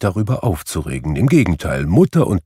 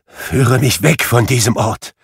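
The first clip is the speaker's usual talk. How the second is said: pleading; 4 semitones higher, 4 dB louder than usual. Acted. Scrooge begs to leave.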